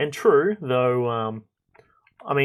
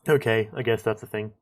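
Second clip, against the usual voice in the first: surprised realization; 6 dB louder than usual. Retold or imitated. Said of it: "and I'm just like".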